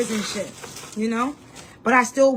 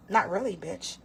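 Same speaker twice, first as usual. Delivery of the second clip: sarcastic aside; 4 semitones lower, 6 dB quieter than usual. Real, not acted.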